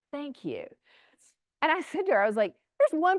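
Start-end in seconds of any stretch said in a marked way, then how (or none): 0.1-0.7 deadpan thanks. Retold or imitated. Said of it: "And I'm like".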